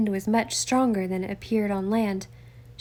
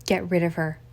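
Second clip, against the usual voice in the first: growled; 3 semitones lower than usual. Acted. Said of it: "Winchester growled".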